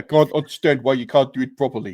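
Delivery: rough attempt at a South African accent. Imitating his old foreman from work who used to ride him: attempted south african accent. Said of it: "I can't do South African".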